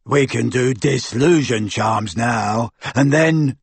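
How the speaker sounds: slow, dim henchman voice; grunting lackey. A narrator's reading. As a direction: plod through it like a slow-witted thug. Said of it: "grunted Goyle".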